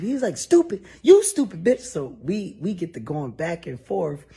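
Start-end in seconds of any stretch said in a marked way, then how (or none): 0.4-1.8 very high and loud yell; screamed insult. Retold or imitated. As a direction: scream it back at her. Boss yelling back.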